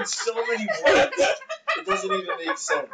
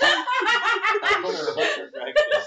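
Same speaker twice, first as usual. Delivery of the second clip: laughing; much slower than usual. Pretend. Mocking, laughing.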